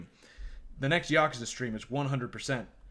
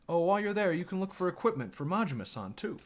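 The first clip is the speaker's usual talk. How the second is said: higher-pitched mock-Chinese accent; put-on Chinese accent; 6 semitones higher than usual. Shopkeeper adding an errand for Majima-san, high Chinese accent. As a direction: pipe up in a caricatured Chinese accent. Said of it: "racist Chinese accent".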